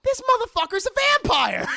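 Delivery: high-pitched mock shout; Van Helsing. Van Helsing spots no reflection, loud hammed-up shout. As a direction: shout the discovery at full comic pitch. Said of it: "He goes".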